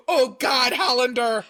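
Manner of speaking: lightly hammed-up lover calling out a surname; mock passion. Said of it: "in passion, he's like".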